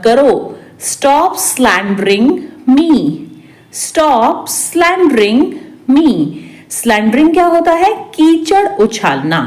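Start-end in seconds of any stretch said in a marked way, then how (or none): 3.7-6.1 stretched words; slow repeat. Shown as a demonstration. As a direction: pause before the last word. Teacher repeats translation word by word. (धीरे-धीरे, खींचकर)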